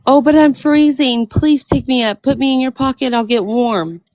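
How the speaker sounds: lightly voiced little snake, pleading. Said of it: "the little snake says".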